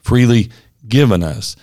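"given" picked out as the key word; stress on GIVEN. Shown as a demonstration. Co-host underlining the past tense, stress on GIVEN. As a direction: put the weight on "given". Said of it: "I want to emphasize the word given".

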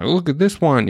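put-on high-pitched little-kid showing off; proud child. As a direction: imitate a proud small daughter. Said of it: "she's all proud about her big bites".

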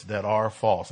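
"are" in "that are false" leaned on as present tense; stress on are. Shown as a demonstration. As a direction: press the word "are". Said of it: "So I say present tense".

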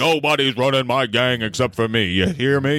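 hammed-up old-movie mob boss; put-on gangster boss voice. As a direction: lay down the law as a parody crime boss. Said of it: "the boss who talks like this".

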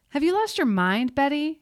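high furious shout; angry yell. A narrator's reading. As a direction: yell it into the dark. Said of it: "he yelled into the darkness".

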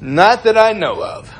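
high, slow evasive answer; used car salesman. Acted. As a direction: dodge it, drawn out and high. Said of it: "used car salesmen".

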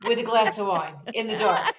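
giggling through the words; half-laughing confession. Real, not acted. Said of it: "This is fucking hysterical".

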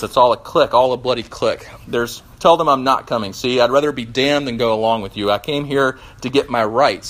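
defiant ghost, lightly voiced; sulky ghost. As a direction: threaten to leave, sulking. Ghost refuses the bright man.

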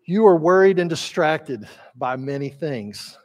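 affectionate, paternal. Acted. Jesus gently answering worried Martha, paternal and tender. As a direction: reassure her like a loving father. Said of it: "It's very affectionate. It's very paternal".

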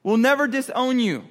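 high-pitched, insistent chiming in; eager agreement. Acted. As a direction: pile on in emphatic agreement. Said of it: "all the other disciples agree".

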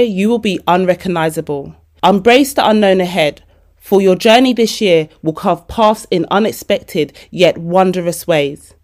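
measured, emphatic affirmation reading; careful read-aloud. Real, not acted. Reading affirmations as a gift to listeners, measured and deliberate. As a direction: read it out properly, phrase by phrase. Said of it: "like I am literate and I can read properly".

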